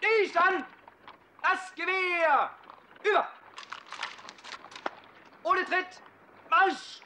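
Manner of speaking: shouted command. Acted.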